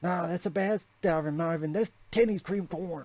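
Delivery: high-pitched yelling. Recalling a scene from the episode, imitating Cartman yelling. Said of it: "especially when he's yelling".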